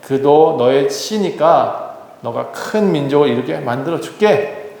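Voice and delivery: slow, gentle divine voice; reassuring God. Retold or imitated. God calming a worried Abraham, slow and gentle. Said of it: "하나님이".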